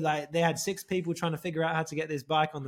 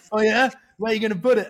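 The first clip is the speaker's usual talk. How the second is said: amused loud question; 5 semitones higher, 8 dB louder, faster than usual. Retold or imitated. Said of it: "he was like".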